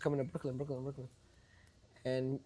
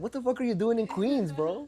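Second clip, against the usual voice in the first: higher-pitched retold disbelief; mock incredulous; 7 semitones higher than usual. Promoter questioning a Brooklyn kid in Queens, playfully incredulous. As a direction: imitate a friend's baffled challenge.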